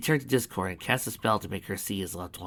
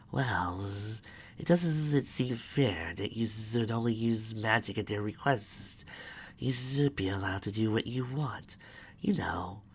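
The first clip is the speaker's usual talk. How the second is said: whispering; 4 dB quieter, slower than usual. Acted. Scheming whisper runs.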